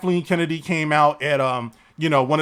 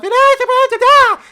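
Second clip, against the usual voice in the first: much higher, louder put-on voice; character voice demo; 6 dB louder than usual. Shown as a demonstration. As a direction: squeal out a cartoon voice. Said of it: "these voice characterizations".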